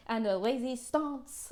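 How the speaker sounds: slow, hint of a French accent; bad French accent. Joking about resistance, in a bad French accent. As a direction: drag it out in a poor French accent. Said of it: "in my really bad French accent".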